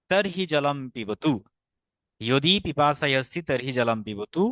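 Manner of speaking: careful Sanskrit recitation, তর্হি with r and h both sounded; pronunciation demo. Shown as a demonstration. Teacher reciting the example for learners, careful r-h in তর্হি. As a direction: model the sentence, giving তর্হি both its r and h. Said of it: "উচ্চারণটা হবে তর্হি".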